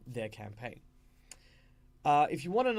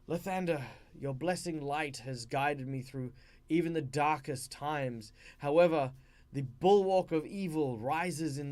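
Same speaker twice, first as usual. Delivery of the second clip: lightly acted formal prayer to a god; mock dying prayer. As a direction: declaim it like a cleric's earnest last appeal. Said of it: "in their final moments, have a prayer to a deity".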